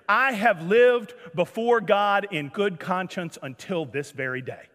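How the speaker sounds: solemn declaration. Acted. Guest solemnly introduces himself to pastor.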